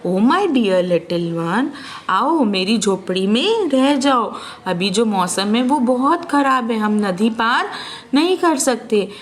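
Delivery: a touch of gentle calm; polite and calm. Acted. Ofrio calmly telling the boy they'll cross in the morning. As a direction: soothe the little one kindly. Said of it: "एकदम politely, एकदम शांति से बोलते हैं".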